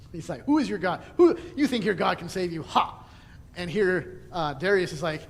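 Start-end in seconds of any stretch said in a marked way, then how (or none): 0.4-3.0 taunting. Retold or imitated. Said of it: "he was taunting Daniel".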